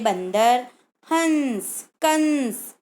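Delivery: बंदर हंस कंस with nasal sound; nasal anusvara. Shown as a demonstration. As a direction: voice the dot as a nasal hum. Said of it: "इसमें हम नाक का प्रयोग करते हैं".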